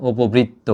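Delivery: উপবৃত্ত said "u-po-britto", rounded o after p; po with closed o. Shown as a demonstration. Teacher demonstrates the rule to students, উপবৃত্ত with "po". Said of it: "ও হয়ে যাবে, ও পো হবে".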